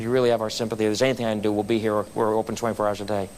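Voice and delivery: low-pitched, understated sympathy; retold condolence. Waiter consoles bereaved guest.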